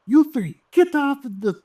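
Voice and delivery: high-pitched, urgent French character; skinny French guy. Acted. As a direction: order them over in a high, loud voice. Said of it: "And he's like".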